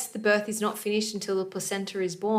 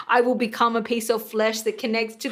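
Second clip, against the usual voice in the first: heroic placenta. Retold or imitated. Host playing the placenta vowing to stay, hammed-up heroic voice. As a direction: declare it like a Spartan swearing to stand. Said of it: "is the placenta from Sparta".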